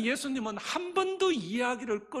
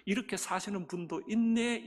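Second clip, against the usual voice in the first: mild admiring. Retold or imitated. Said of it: "이렇게 말해야 되는데".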